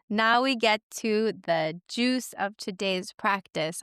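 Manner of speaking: slow, deliberate class-leading voice; yoga teacher mode. Real, not acted. Host slipping into teaching voice for listeners, slow and deliberate. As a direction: ease into it like opening a yoga class. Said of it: "yoga teacher mode".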